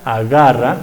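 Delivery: "agarra" with the G soft, air flowing. Shown as a demonstration. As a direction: let the G in "agarra" glide without a full stop. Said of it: "el aire no se obstruye y suena". ("agarra" con la G suave, fricativa)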